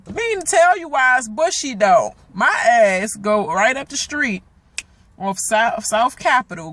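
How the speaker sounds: high, loud angry venting; mad rant. Real, not acted. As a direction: rant about the car in real anger. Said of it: "I'm sorry, I'm mad".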